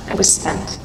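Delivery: breathy whisper of exhaustion; whispered, utterly drained; whispered echo. Real, not acted. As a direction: let the words fall to a whisper. Repeated as a whisper.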